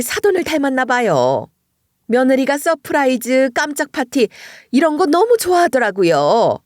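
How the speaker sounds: sarcastic sweetness. Retold or imitated. Mother-in-law sarcastically greeting the visiting mother, mock-sweet. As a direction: needle her with fake friendliness. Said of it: "이런 식으로 비꼬면서".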